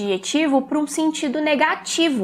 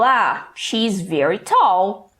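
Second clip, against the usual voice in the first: slow model sentence; 4 semitones lower, much slower than usual. Shown as a demonstration. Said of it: "se eu falo".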